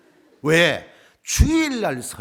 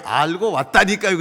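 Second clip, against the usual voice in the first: louder, insistent retold reply; exasperated retort; 6 semitones higher, 7 dB louder than usual. Preacher answering the senior pastor's repeated warning, exasperated. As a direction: insist that you already know, louder.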